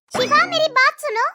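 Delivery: sharp, annoyed call for attention; angry summons. Acted. Sister-in-law confronts Shifa over her clothes, angry. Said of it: "आप इतने गुस्से में क्यों हैं".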